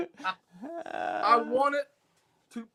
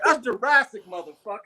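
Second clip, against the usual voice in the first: mock retort; 6 semitones higher, 4 dB louder than usual. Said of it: "I'm like".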